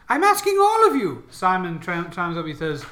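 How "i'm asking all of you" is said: unearthly voice. Acted. The disembodied voice insists.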